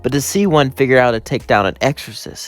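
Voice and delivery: gleeful, thrilled by a new find; Jack's excited voice. Acted.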